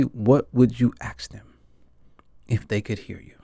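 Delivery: soft whisper, intimate; whispered question. Real, not acted. Asking viewers what they'd say to the dead, whispered. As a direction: whisper it as if they might hear.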